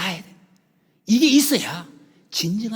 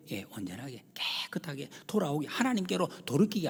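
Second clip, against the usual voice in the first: breathy whispered plea; 5 dB quieter than usual. Real, not acted. Preacher whispers to the congregation, voiceless and intimate. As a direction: hush it to a whisper. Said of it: "preacher drops to whisper".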